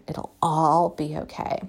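a calm promise that it'll all be okay; gentle reassurance. Real, not acted. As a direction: reassure yourself and them, slowly. Reassuring repetition, slowed and softened.

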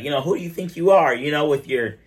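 lightly voiced pissed-off husband; mock angry husband. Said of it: "he's like".

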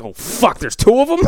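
panicked realization, leaping high and loud; hammed-up freak-out; mock panic. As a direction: act out his alarm, rising to a high yelp. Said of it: "having a fucking thunderstorm in his head".

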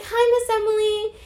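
high, drawn-out hello; imitated student greeting. Former student greets her old teacher, high drawn-out hello. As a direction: mimic a student sweetly greeting a teacher, slowly.

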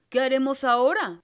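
loud, worried driver shouting; alarmed coachman. A narrator's reading. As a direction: cry out over the storm. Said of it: "preguntó el conductor".

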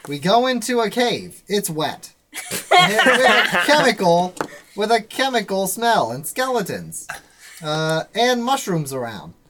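put-on old-time serial announcer recap; Legend of Korra announcer. Game master recaps the adventure to players, announcer voice. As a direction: punch out each phrase like an episode recap. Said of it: "I'll be the announcer from The Legend of Korra".

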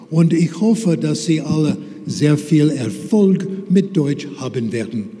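lightly voiced, ordinary-pace German lecture; German lesson demo. Shown as a demonstration. Speaker shows the audience an unhelpful German lesson, steady and unadorned. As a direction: rattle it off like a dry lecture. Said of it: "if I kept talking like that".

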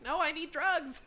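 high-pitched mock protest; acted-out patient begging; desperate plea. Patient protesting before tooth pulling.

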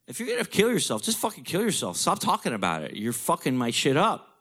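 high exasperated snap at dad; fed-up outburst. Retold or imitated. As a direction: vent your frustration. Son snapping at father.

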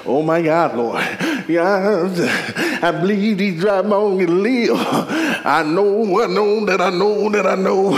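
mock-fervent believer's declaration; fervent church declaration. Preacher imitates believers answering God, fervent declaration. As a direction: declaim it like a churchgoer full of faith.

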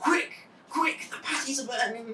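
panicked worker. Retold or imitated. Voicing panicked McDonald's worker.

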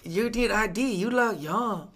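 badly faked Asian accent; mock Asian accent. Imitating the store clerk asking for ID, muddled Asian accent. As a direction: attempt another accent, landing on Asian. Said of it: "did an Asian black woman".

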